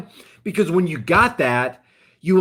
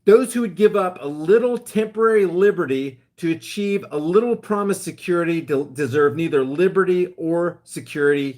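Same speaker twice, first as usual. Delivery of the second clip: mock Franklin quote. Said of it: "Benjamin Franklin literally said".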